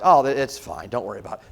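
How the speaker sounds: low, casual reassurance; imitating a relaxed captain; unworried captain. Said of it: "the captain's not nervous".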